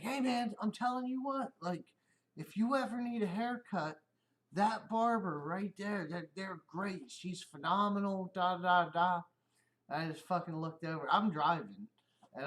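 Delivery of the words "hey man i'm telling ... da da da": lightly voiced buddy, a bit higher and eager; playful imitation of an eager coworker; buddy's voice. Coworker recommends a barber to the bald driver, lightly imitated and eager. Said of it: "And he was like".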